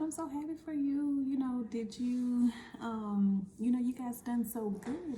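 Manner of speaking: a hint of a bubbly, beaming staffer; mock cheerful congratulations; overly bubbly. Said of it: "like, overly bubbly".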